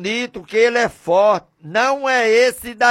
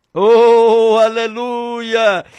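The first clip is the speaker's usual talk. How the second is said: fervent aleluia; 3 semitones higher, 5 dB louder, much slower than usual. Real, not acted. Preacher exclaims in worship.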